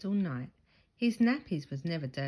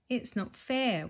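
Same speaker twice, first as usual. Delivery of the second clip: wailing; 6 semitones higher than usual. A narrator's reading. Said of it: "wails Henry".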